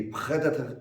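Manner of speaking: "predator" with a French throaty R; French accent. Shown as a demonstration. Teacher showing an accepted variant, French accent. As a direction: say "predator" as a French speaker would. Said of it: "it can be".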